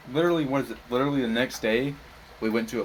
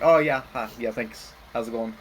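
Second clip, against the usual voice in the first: disguised voice. Retold or imitated. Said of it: "I try to make my voice sound like not my voice".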